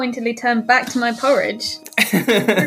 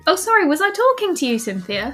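sarky, quick put-down; snide; 5 semitones higher than usual. Acted. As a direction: needle her with fake politeness. Snide remark to rival.

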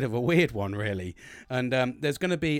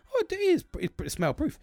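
mock relief. Mock relief at smell-proof bag.

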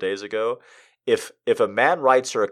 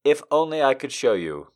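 tender, measured poetry reading; poem reading; 3 dB louder than usual. Acted. Streamer reading Arnold's poem to chat, tender reading. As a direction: read the love poem sincerely.

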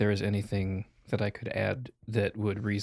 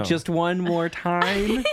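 mock gambler drawl; 7 semitones higher, 5 dB louder, much slower than usual. Teasing a gambler, drawn out.

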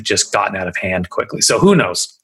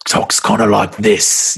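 Cockney accent; slower than usual. Shown as a demonstration. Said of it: "It's like one of those accents".

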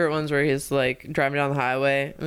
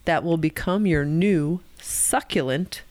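slow, whispered, sultry finish; seductive ad read; slower than usual. Pretend. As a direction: breathe the last words like a perfume ad. Reading label seductively.

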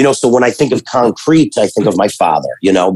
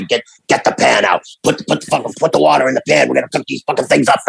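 brother's voice; faster than usual. Retold or imitated. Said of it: "and he talked like this".

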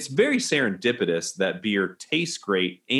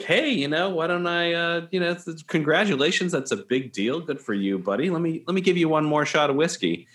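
higher, upbeat barman voice; high, cheery bartender; 5 semitones higher than usual. Acted. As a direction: congratulate him brightly. Bartender congratulating, raised pitch.

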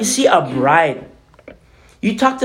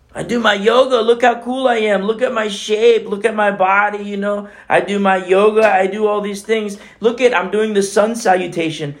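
higher, smug yoga boast; higher mocking show-off voice; 4 semitones higher than usual. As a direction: brag like a vain gym-goer. Mocking a vain yoga fan.

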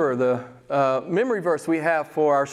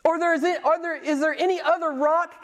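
very high, incredulous-style divine challenge; God; 11 semitones higher than usual. Acted. Preacher voicing God in Isaiah forty-four eight, high-pitched challenge. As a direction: ask it high, as God challenging all rivals. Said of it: "I love it when he talks like this".

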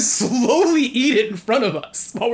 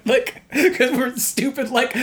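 laughing; 4 semitones higher, slower than usual. Real, not acted. Laughing at their own teen silliness.

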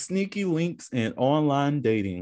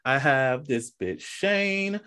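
slow, mock spiteful introduction; mock hateful; much slower than usual. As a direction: say her name like you can't stand her. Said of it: "I have to say that way because I hate her".

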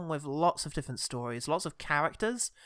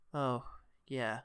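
low, resigned acknowledgement; grim and fatalistic; 3 semitones lower, 5 dB quieter than usual. Retold or imitated. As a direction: sigh it out quietly, resigned to fate. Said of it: "something sort of grim and fatalistic".

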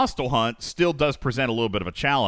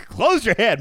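laughing; 9 semitones higher, 5 dB louder than usual. Real, not acted. Laughing at the slip.

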